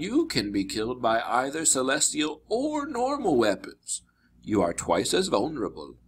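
lightly voiced storied teacher, stretching key phrases; grave mentor. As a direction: explain and warn as a wise tutor.

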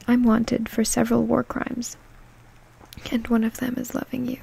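quick breathy whisper; fast ASMR whisper. Acted. Whispered comment reading.

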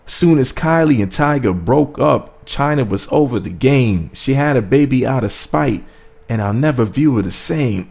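reading the lines out like rap bars; measured, emphatic recital with a lift on each phrase; dramatic reread. Shown as a demonstration. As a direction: savor each bar as you read it. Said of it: "let me reread that".

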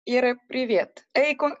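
usual speaking voice

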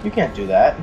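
high, loud indignant yelp; shocked protest, voice jumping up; outraged surprise. Real, not acted. Enemy kicks him in game.

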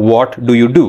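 rounded-lip Indian pronunciation; Indian accent. Shown as a demonstration. Teacher demonstrating the rounded sound, Indian accent. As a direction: Indian English with firm, rounded vowels. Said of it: "They make their lips rounded".

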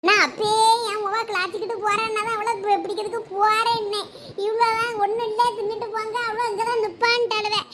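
mildly acted weeping complaint; tearful lament. Mother explains how her daughter went off, tearful lament. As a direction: lament helplessly, stretching the ending. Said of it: "இப்படி சொல்லாம கொள்ளாம அழுதா".

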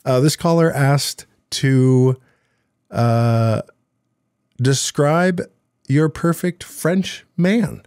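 put-on reclaiming a jokey French accent for the caller; mock French accent. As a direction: drawl it in a cartoon French accent. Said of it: "I wanna see if I can get my French accent back".

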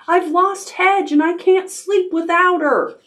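put-on very high child owl lament; calling out upset. A narrator's reading. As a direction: wail it lightly to mother, high-pitched. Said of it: "he called".

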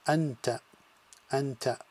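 "anta" with "an" fused into one syllable; blended syllable. Shown as a demonstration. Teacher showing sukun joining sounds. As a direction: join the n to the a in "anta". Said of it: "create the one sound".

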